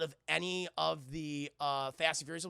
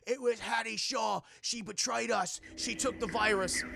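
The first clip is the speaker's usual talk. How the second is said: imitated Cockney accent; Idris Elba; 2 semitones higher, 3 dB louder than usual. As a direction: put on a Cockney accent for the accusation. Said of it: "Cockney accent Idris Elba".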